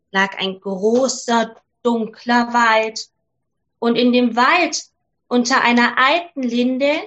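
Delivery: put-on calm, measured storytelling to children; fairy tale narration. A narrator's reading. Narrator telling children the Frog Prince, calm storytelling. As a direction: read it like a bedtime tale.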